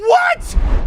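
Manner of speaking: high, loud, stunned cry full of disbelief.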